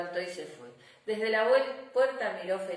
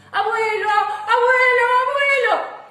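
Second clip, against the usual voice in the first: high, loud, sing-song calls of abuelo; excited little girls calling; 14 dB louder than usual. Acted. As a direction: shout abuelo like eager kids.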